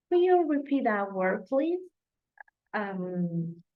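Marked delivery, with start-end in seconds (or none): 0.1-1.8 lightly British, rising please; a British-sounding question; British accent. Shown as a demonstration. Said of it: "I'm sounding more British than American".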